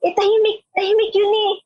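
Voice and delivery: incredulous. Retold or imitated. Upperclassmen retold, incredulous.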